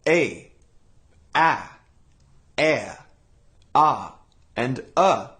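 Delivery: "A", "a", "air", "ah", "uh" said as separate clear vowel sounds; vowel variants of A. Shown as a demonstration. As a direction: sound out each version of the letter A. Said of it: "The letter A can sound like".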